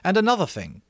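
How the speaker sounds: Ralph. Acted. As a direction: lay it out to the boys. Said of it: "said Ralph".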